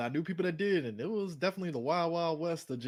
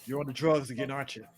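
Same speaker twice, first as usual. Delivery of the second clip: a hint of a scolding mother, louder at the end; accusing mom; 5 dB louder than usual. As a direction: nag like a suspicious mother. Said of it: "His mom did a typical".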